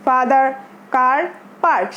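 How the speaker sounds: "father", "car", "park" with an open "ah"; long "ah" sound. Shown as a demonstration. Teacher reviewing the earlier words, "father", "car", "park" with long "ah". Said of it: "সেখানে আমাদের ছিল আ sound".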